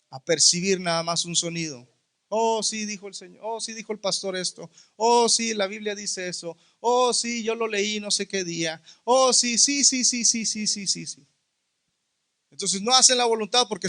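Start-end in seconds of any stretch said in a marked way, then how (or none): 2.3-11.3 dismissive "oh yeah" tossed off, trailing softer; mock half-listening agreement. Preacher mimicking those who only hear, absent-minded agreement. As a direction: imitate someone agreeing without really listening.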